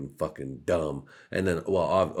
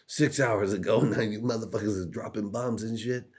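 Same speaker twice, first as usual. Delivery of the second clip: higher alarmed whoa; mock alarm; 5 semitones higher than usual. Everyone mocking the broken ceasefire, alarmed. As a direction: call out shocked. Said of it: "everyone was like".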